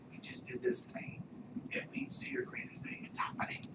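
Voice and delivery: soft whispered inner voice; whisper of the mind. Pretend. Subconscious mind rewarding you, whispered. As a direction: breathe it like a secret.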